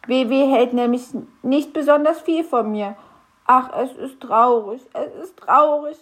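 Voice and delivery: a small grump lamenting his boss doesn't trust him; sad little grump. Acted. Knöterchen laments. (höhere, traurige Wichtelstimme)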